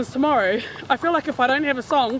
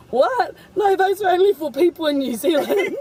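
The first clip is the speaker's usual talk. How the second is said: surprised protest; 8 semitones higher, 3 dB louder than usual. Retold or imitated. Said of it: "we were like".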